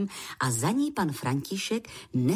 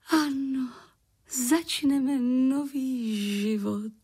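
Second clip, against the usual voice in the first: mild exclamation; 6 semitones higher than usual. Acted. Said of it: "zvolala paní Voráčková".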